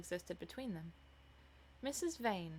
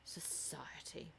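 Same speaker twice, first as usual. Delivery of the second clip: slow, very soft, scornful mutter; 4 semitones lower, 11 dB quieter, much slower than usual. A narrator's reading. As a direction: mutter it under your breath. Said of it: "muttered the lad".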